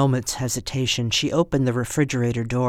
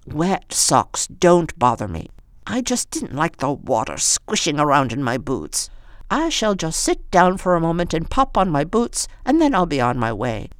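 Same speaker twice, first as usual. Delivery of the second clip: put-on old woman voice; 3 semitones higher than usual.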